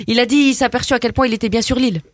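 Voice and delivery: put-on brash teen girl from the estate, chatty and cocky; cheeky suburban girl. Comedy guest chatting to the radio host as a cocky suburban girl. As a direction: play a gossipy banlieue girl full of slang. Same character continues.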